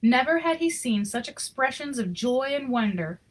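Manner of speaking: even, expressive read-aloud storytelling; story narration. Acted. Reading a Christmas picture book to children, storytelling voice. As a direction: tell the story to the kids gently.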